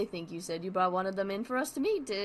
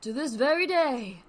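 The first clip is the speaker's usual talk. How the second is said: higher, louder Brooklyn comedian; Brooklyn Barnaby; 5 semitones higher, 7 dB louder than usual. Acted. Barnaby bragging to the host, Brooklyn accent. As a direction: Brooklyn comic brag, punchy. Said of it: "He's turning Brooklyn".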